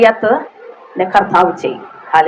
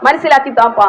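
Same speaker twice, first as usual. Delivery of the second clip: a heartfelt demonstrated prayer, higher; fervent prayer; 3 semitones higher than usual. Shown as a demonstration. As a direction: pray it earnestly to the Father. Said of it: "ഓരോ വാക്കും പറയുമ്പോ".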